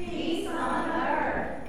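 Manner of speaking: group repeat. Real, not acted. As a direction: say it back together. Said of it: "repeat after me".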